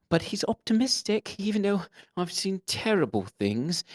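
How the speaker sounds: put-on high pleading orphan boy voice; high, pitiful Cockney orphan begging for help; pitiful Dickensian orphan. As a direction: beg like a ragged Victorian urchin. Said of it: "kind of a pitiful character".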